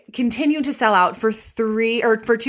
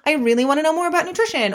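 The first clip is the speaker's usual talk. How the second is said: mock client voice; 7 semitones higher, much faster than usual. Imitating a client's surface reason.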